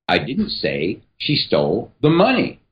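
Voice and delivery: money weighted at the end; emphasis on "money"; stress on money. Shown as a demonstration. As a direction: land on the word money. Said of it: "emphasis here is going to change every single time".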